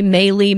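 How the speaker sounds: MALI as "MAY-lee"; trying another pronunciation. Shown as a demonstration. Co-host guessing at a stranger's first name, trying another pronunciation. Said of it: "don't know how to pronounce".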